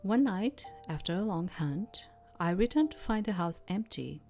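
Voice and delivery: measured literary read-aloud; narrating a story line by line; story narration. A narrator's reading. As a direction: read it as a first-person tale, with pauses.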